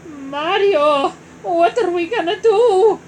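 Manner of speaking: high, loud panicked wail. Acted. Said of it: "Luigi wailed".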